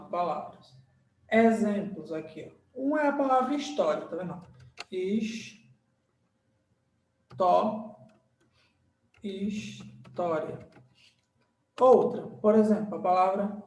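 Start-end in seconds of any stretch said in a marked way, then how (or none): 4.9-10.7 HIS, TÓ, then HIS-TÓRIA, long gaps; syllable by syllable. Shown as a demonstration. Teacher writing the example word história, slowly sounding out syllables.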